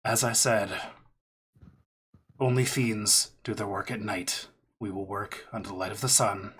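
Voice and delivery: restrained, mildly gruff stranger; gruff voice calling out. Acted. Stranger restating terms to the party, mildly gruff. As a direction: repeat your terms patiently, lightly gruff. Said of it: "You hear a gruff voice call out".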